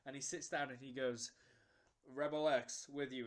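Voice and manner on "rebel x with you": mock American accent, lightly put on; terrible American accent. Fan in rebel uniform greeting strangers, hammy American accent. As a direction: imitate a bad American accent, a bit loud. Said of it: "he's got a terrible American accent on".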